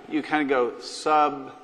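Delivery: "substantive" said with the stress on the middle syllable, sub-STAN-tive; accent on the middle. Shown as a demonstration. Senator showing a colleague where he puts the stress, "substantive" stressed on STAN. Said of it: "you put the accent on the middle".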